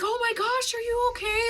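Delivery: high-pitched imitation of a worried doctor; really concerned. Doctor handing a tissue to sobbing patient, imitated high concern. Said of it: "just really concerned".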